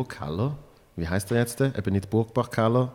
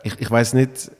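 too much caffeine; 5 dB louder than usual. Real, not acted. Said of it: "vielleicht habe ich schon zu viel Kaffee gehabt".

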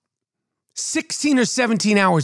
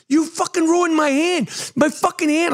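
retold accusation; 7 semitones higher than usual. Acting out accusing his wife.

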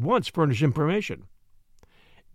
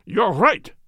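a sudden, louder cry, a little higher; cried out; 5 semitones higher, 4 dB louder than usual. A narrator's reading. The king gives up the disguise to Holmes, crying out. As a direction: burst out with it, giving in. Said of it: "he cried".

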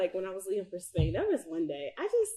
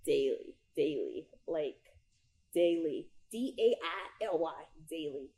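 each daily said low and firm, spelled out once; stressed daily; 3 semitones lower, 3 dB quieter than usual. Shown as a demonstration. Preacher drilling one word into listeners, firm stress. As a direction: hammer home the word daily. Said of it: "start stating your faith daily".

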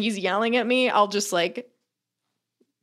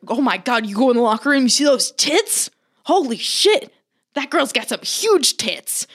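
gawking locker-room bro; 2 semitones higher, 3 dB louder than usual. Retold or imitated. Guys in the locker room gushing over tits, hyped and loud. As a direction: ham up a bro ogling.

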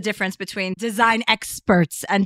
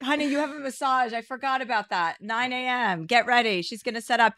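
aside off mic; 2 semitones higher, 5 dB quieter than usual. Real, not acted.

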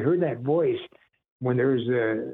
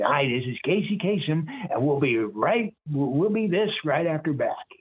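Casey Kasem impression; 3 semitones higher than usual. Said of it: "Casey Kasem would be great".

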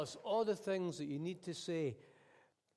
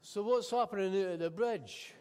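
put-on posh Scottish accent; 3 semitones higher, 3 dB louder than usual. Passenger asking the cabbie in a posh Scottish accent. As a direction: ask it in a refined Scottish accent, offended. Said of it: "in this accent that's either posh Scottish or English".

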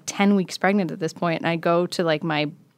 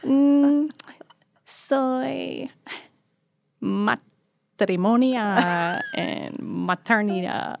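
a hint of a put-on Italian accent, slow; mock Italian accent; 3 semitones higher, much slower than usual. To the pharmacist, in a mock Italian accent. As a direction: fake Italian accent over Spanish words. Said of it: "a Italian accent".

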